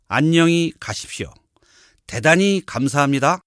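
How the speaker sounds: polite PA announcement voice; store announcement. Acted. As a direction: read it like a shop's closing notice over the speakers. Store closing announcement read.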